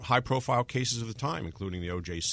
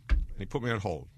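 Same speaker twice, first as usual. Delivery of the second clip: normal talking voice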